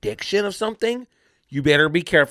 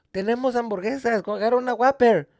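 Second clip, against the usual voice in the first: higher-pitched acted relative; cousin piping up; 6 semitones higher than usual. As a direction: pipe up with a higher voice. Cousin eagerly offering burgers, retold.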